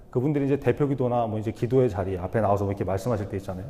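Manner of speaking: ordinary talk, nothing marked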